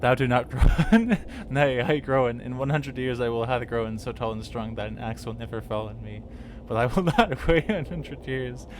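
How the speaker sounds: giggling while acting the tree; laughing. Real, not acted. Tree taunting the woodcutter, laughing loudly.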